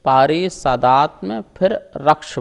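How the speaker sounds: पारिषदात्म as one piece, then रक्ष separately; split after MA. Shown as a demonstration. Teacher shows the split for students, careful articulation. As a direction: break between पारिषदात्म and रक्ष. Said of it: "मा तक बोलेंगे".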